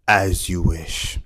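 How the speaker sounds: slow, hushed and devoted; lightly voiced Wesley. Movie quote impressions opening vlog.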